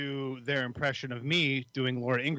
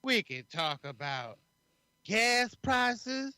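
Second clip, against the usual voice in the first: slow, higher-pitched mock pundit voice, a little hammed-up; Laura Ingraham impression; 3 semitones higher, slower than usual. Host challenges co-host to imitate a pundit, slow higher mock voice. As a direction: drawl it out slowly like a smug TV host, pitched up. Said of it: "Now you have to do an impression of Laura Ingraham".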